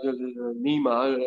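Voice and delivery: imitating a failed whisper at talking volume; Siegel. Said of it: "Siegel's kind of whisper, but it was like talking normally".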